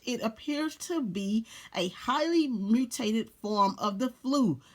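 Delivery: "highly mutated" drawn out word by word; slow down so it sinks in; slow, deliberate re-read. Shown as a demonstration. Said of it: "What did she just say on the C D C page?".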